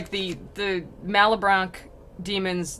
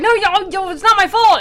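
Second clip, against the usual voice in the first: high, loud protest; mock defensive yell; 12 semitones higher, 11 dB louder than usual. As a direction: squabble back like a cartoon demon. Acted demons quarrelling.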